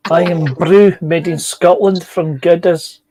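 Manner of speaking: a slow, lightly done Scottish advert voice; apologising for a terrible Scottish accent in the ad line. Retold or imitated. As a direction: read it like the old Irn-Bru ad in a bad Scottish accent. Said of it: "Please excuse my terrible accent".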